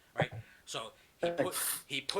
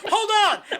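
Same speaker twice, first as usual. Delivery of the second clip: loud, hammed-up call; mock urgent shout; 11 dB louder than usual. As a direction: call out like a flustered old warrior. Acted old warrior's reply.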